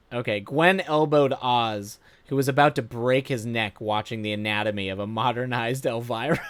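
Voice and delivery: plain reading voice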